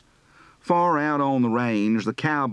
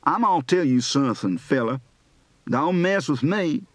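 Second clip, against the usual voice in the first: Alabama accent. Shown as a demonstration.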